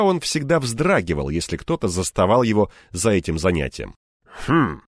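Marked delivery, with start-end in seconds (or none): 4.5-4.8 short, gruff "hm"; grumpy hum. Acted. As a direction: grunt it under mild displeasure. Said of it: "буркнул он". (недовольное «хм»)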